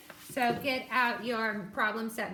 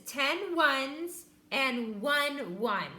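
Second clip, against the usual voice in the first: slow counting; 3 semitones higher, much slower than usual. Shown as a demonstration. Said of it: "practiced the vocabulary".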